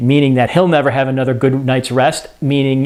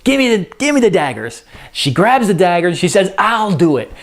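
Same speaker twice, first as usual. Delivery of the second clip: impatient Lady Macbeth; 4 semitones higher than usual. Acted. Lady Macbeth grabs the daggers.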